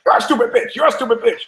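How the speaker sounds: very high parrot squawk; high-pitched parrot voice. Acted. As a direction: screech it out like a talking parrot. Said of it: "the parrot's like".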